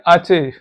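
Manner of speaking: आचे said as ah-cheh; letter H in Spanish, आचे. Shown as a demonstration. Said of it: "H को समझेंगे".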